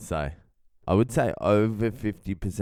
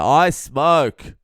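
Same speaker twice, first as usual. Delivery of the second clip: a hint of the loud stranger, higher; lightly voiced booming stranger; loud guy; 4 semitones higher, 5 dB louder than usual. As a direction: announce it a bit too loud. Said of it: "He's like".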